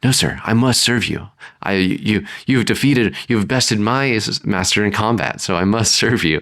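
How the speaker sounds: put-on understated old-fashioned servant voice with a laugh at the end; formal servant. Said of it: "I don't know why he's talking like that".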